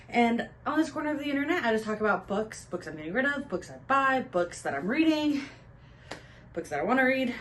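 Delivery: slightly breathless, just back from the gym; out of breath. Real, not acted. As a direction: talk while catching your breath. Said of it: "Sorry, I'm out of breath".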